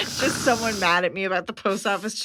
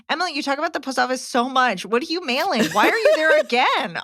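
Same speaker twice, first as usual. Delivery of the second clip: more animated reread; 3 semitones higher than usual. Shown as a demonstration. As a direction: read it again with more punch, climbing to the last question. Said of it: "I cannot bullshit".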